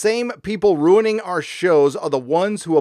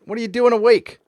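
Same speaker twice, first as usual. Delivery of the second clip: higher, louder incredulous question; surprised and loud; 9 semitones higher, 5 dB louder, faster than usual. Real, not acted. Streamer amazed a viewer is up at four am, loud disbelief. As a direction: blurt it out in disbelief.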